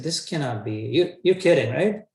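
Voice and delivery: stunned, asking if it's a joke; disbelief. Retold or imitated. Arjun refusing to believe Krishna, rising disbelief. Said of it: "They said".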